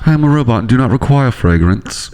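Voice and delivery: stiff robotic monotone. Pretend. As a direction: speak like a machine. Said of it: "I sound like a robot".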